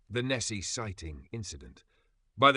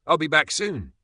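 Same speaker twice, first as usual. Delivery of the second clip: higher, louder cheerful call; 7 semitones higher, 9 dB louder than usual. A narrator's reading. Emma leaving the cat outside, calling out cheerfully. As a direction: call it back over your shoulder. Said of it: "she called".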